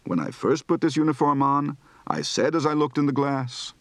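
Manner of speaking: spoken with a rising-falling explanation tune, "put" stressed; explanation intonation. Shown as a demonstration. Teacher demonstrates the song line as an explaining tune. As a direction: recite it as an explanation, lifting on "put". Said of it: "Recite the following practice phrases".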